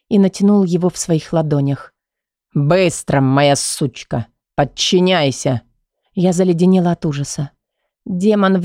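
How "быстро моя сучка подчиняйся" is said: deep, slow domineering male voice; low slow command. Acted. Kai orders her with a belt, low and slow. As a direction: drag the order out, low and cruel.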